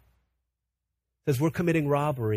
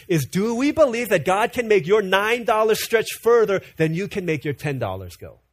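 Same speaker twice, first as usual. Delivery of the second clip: louder, pushing the question; emphatic preaching; 4 semitones higher, 4 dB louder than usual. Acted. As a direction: challenge the listeners. Preacher pressing the key question.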